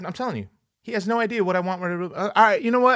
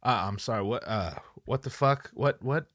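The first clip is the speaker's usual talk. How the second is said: baffled therapist; 6 semitones lower, 5 dB quieter than usual. Retold or imitated. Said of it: "the therapist to be like".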